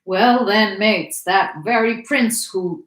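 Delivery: "who" stretched and stressed; strong emphasis on "who". A narrator's reading. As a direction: call it out and lean hard on "who". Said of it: "with a strong emphasis on the word who".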